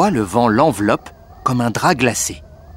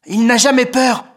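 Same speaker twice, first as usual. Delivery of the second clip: higher, lightly voiced brother, ironic; mocking big brother; 12 semitones higher, 4 dB louder than usual. Félix voiced.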